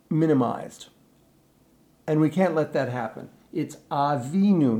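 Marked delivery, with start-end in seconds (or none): 3.5-4.8 Avinu with the first syllable ah kept full; don't swallow the ah of Avinu. Shown as a demonstration. Teacher to choir, stressing the word whole. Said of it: "not just Vinu".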